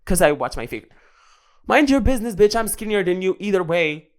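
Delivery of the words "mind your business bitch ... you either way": sassy clapback. Pretend. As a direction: put the nosy critic in her place with attitude. Sassy retort to the critic.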